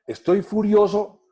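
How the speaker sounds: hammed-up angry letter line, stretched out; drawn-out fake rage at the start of a letter; mock furious. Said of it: "cómo voy a arrancar diciéndole que estoy furioso".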